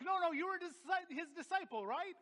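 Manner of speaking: high-pitched, insistent accusation; insistent accuser. Acted. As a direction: act out a bystander pressing the point. Acted accuser confronting Peter.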